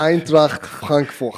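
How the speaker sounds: Eintracht Frankfurt said slowly in a German accent, ch rasped. Shown as a demonstration. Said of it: "In the German accent, right?".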